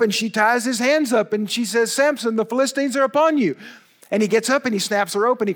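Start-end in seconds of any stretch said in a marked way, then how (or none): 1.9-3.6 higher, quick alarmed warning; mock alarm. Delilah waking Samson as the Philistines come, mock alarm. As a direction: fake a sudden warning.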